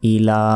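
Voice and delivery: ইলা with the la drawn one second; lengthened ইলা. Shown as a demonstration. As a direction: stretch ইলা. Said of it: "এলাতে এক second টেনে পড়তে হবে".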